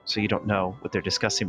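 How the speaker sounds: ordinary talk, nothing marked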